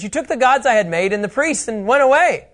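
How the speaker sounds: hammed-up victim pleading; outraged Micah. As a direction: Micah protesting to the Danites. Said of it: "So Micah says".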